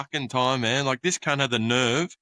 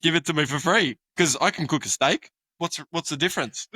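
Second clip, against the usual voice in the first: indignant rant; 5 semitones higher than usual. Real, not acted. Ranting about free work demands.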